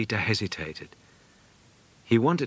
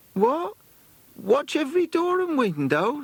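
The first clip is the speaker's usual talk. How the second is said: much higher, incredulous; astonished companion; 3 dB louder than usual. Acted. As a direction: throw the question back in disbelief.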